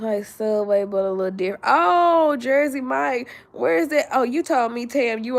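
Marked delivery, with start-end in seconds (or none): 1.6-5.4 high, loud excitement; excited. Real, not acted. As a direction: lights up with excitement. Excited realisation.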